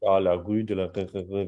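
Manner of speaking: "la rue de la r" with a throaty French R; French R imitation. Teacher imitating a French speaker's R. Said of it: "very nasal".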